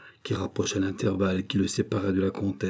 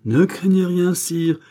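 high, raised voice; emphatic reassurance; 9 semitones higher, 6 dB louder, slower than usual. A narrator's reading. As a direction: call back firmly over the alarm. Answers the alarmed king over struggle.

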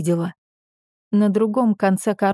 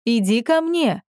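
father calling; 3 semitones higher than usual. A narrator's reading. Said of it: "снова позвал он".

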